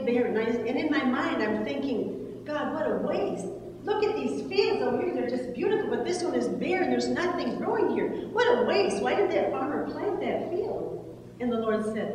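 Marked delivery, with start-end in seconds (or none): 2.5-11.1 higher-pitched, lightly indignant questioning; mock complaint. Woman retelling her thoughts on a barren field, mildly indignant. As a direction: replay a puzzled grumble at the waste.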